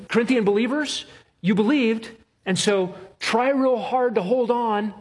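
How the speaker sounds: mock the idea that they held on themselves; mock sermon voice. Mock version of works-based reading.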